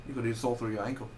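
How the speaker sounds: quick, botched Australian accent; attempted Australian accent. Shown as a demonstration. Reviewer having a go at the film's line, shaky Australian accent. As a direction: try an Australian accent and miss, landing near British. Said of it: "I gotta do that Australian accent".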